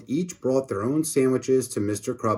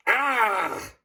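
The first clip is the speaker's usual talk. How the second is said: mild mock scream; 10 semitones higher, 3 dB quieter than usual. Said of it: "screamed Mister Krupp".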